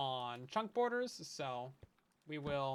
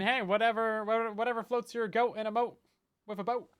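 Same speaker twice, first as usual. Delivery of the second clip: playful; 3 semitones higher, 5 dB louder than usual. Acted. Playful rhyme, loud.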